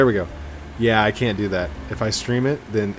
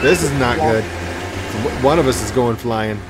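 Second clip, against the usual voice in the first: excited; 2 semitones higher, 8 dB louder than usual. Real, not acted. Racing game, car about to crash.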